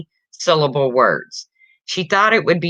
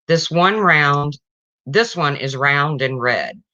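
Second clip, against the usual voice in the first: slow teacher; slower than usual. Acted. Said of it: "A teacher says to her class".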